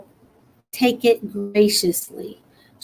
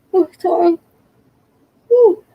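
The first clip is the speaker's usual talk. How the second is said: startled; 9 semitones higher, 5 dB louder than usual. Real, not acted. Sudden startle mid-sentence.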